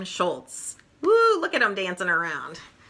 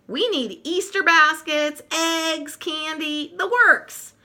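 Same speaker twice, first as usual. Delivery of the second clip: eager list; 8 semitones higher, slower than usual. Acted. Lucy listing Easter supplies.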